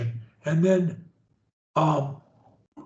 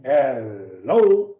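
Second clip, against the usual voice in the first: HELLO from a low, stretched HEL, jumping up on LO; start low; 6 semitones lower than usual. Shown as a demonstration. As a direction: begin deep, then leap up. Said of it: "either high or low".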